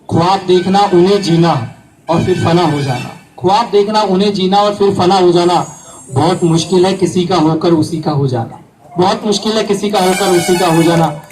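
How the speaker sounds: measured mushaira-style repetition; couplet recitation. Acted. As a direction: recite each line firmly and evenly. Recites love couplet, each line twice. (शायरी पाठ का अंदाज़)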